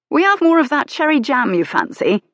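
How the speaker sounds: high, loud cheery shopkeeper; shopkeeper's greeting. Acted. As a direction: call out a friendly good day. Shopkeeper offers jam.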